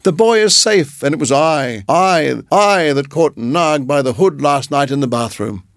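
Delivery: high gloating mongoose; triumphant. Acted. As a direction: crow with triumph. Rikki triumphant.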